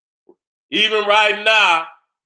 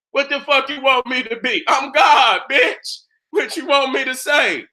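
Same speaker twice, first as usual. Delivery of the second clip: defiant shout; 5 semitones higher than usual. Real, not acted. Defiant rant at critics.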